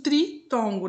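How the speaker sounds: "tritongo" with "tri" set apart, tri... tongo; single out the first syllable of "tritongo"; stress on TRI. Shown as a demonstration. Teacher explaining the term to pupils, "tri" in "tritongo" set apart. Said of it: "Tri de três".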